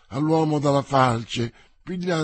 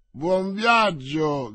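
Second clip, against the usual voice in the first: drawn-out, slow friendly call; cheerful shout; 3 semitones higher, 4 dB louder, much slower than usual. Acted. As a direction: shout it slowly to the coach. (saluto gridato lentamente)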